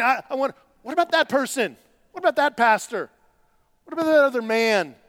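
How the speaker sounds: mock-whiny believer asking about others; indignant complaint. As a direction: grumble at God. Voicing our complaint to God.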